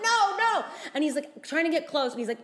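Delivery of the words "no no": retold alarmed refusal. Fighting off a forced kiss.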